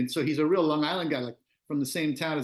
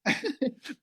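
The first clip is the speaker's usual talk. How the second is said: giddy laugh; 11 semitones higher than usual. Real, not acted. Laughing after childlike excitement.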